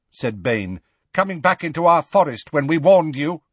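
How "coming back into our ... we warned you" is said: loud, raised-pitch accusation; hostile centaur. A narrator's reading. Bane rebuking Hagrid for coming back, hostile. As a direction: challenge the intruder as an angry centaur.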